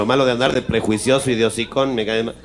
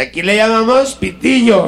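slow, higher Castilian Spanish with llamamos stressed; Spaniard's correction; 9 semitones higher than usual. Acted. Madrid local correcting the Mexican about cigarettes, slow Castilian. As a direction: lean on llamamos like a know-it-all from Madrid.

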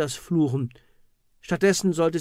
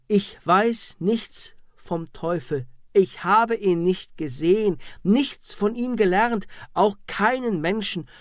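screaming innocence; 5 semitones higher, 5 dB louder than usual. Acted. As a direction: scream your innocence under torture. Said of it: "schrie weiter". (verzweifelter lauter Unschuldsschrei)

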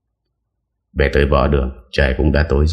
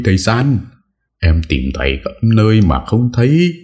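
breathless panic; 8 semitones higher than usual. A narrator's reading. Boy who searched everywhere for San, frantic and high. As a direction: call again, more desperate. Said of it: "hớt hải nói".

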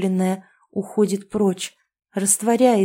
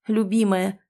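ordinary delivery

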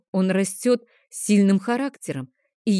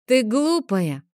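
put-on higher, know-it-all boy calling his sister silly; smug child insult; 6 semitones higher, slower than usual. Boy mocks his sister, higher smug taunt. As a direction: tease her like a cocky little brother. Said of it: "заявил ей Теодор".

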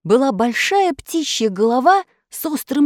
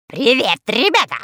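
выкрик; 2 semitones higher than usual. A narrator's reading. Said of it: "выкрикнула она".

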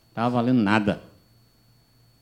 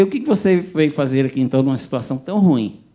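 loud, higher rebuke; stern shout; 4 semitones higher, 6 dB louder than usual. Retold or imitated. Pastor scolding the drunk visitor, loud stern rebuke. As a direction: scold him hard.

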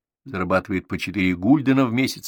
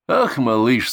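booming voice from a well; 3 semitones higher, 7 dB louder, slower than usual. A narrator's reading. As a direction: boom it like an echo from a well. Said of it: "своим гулким, как из колодца, голосом".

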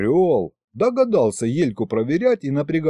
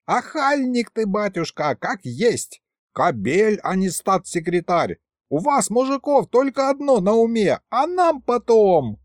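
indignant scolding; 8 semitones higher than usual. A narrator's reading. Elka rails at the boss about men, high and indignant. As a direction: rail at men in general.

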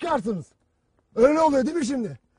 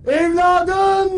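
mock wailing mother; 3 semitones higher, 4 dB louder than usual. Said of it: "diye ağlıyor".

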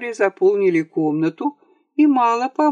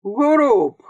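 sharp shouted name, higher and louder; shouting; 5 semitones higher, 4 dB louder than usual. A narrator's reading. Captain jumps up from the table, shouting at Grob. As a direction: bark the name across the room. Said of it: "крикнул капитан".

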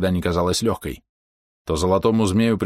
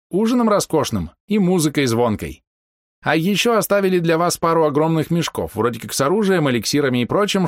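put-on old man voice; 7 semitones higher than usual. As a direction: chatter like a fussy old man.

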